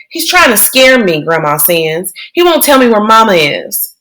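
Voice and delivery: put-on a worried young girl questioning her brother; child's voice, rising alarm; little sister Joey. Joey complains to grandma.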